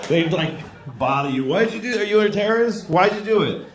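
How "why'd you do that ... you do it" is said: interrogating officer. Retold or imitated. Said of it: "questioning by officials".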